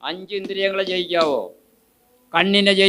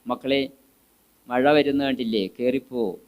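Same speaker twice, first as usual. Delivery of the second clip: gently; 5 semitones lower than usual. Shown as a demonstration. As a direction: call the kids in kindly, tender parent. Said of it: "എന്ന് സൗമ്യമായിട്ട് പറയണം".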